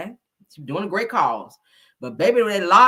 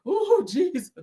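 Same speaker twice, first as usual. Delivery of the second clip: mock ugly cry; 7 semitones higher, slower than usual. Shown as a demonstration. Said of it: "You gotta put your hand like this".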